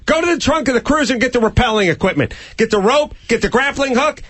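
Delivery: high, fast hammed-up orders; mock barked orders. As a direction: bark orders like a movie sergeant. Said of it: "And then I would yell them".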